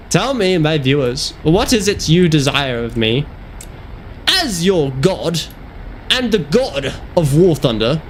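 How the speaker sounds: slow, booming divine pronouncement; grandiose god voice. Pretend. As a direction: speak as an all-powerful god. Pompous god persona to viewers.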